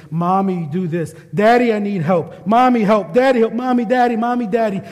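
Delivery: lightly voiced child calling for parents; imitating a needy child. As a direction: call for mommy and daddy like a small child, building. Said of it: "Common phrase for younger children is".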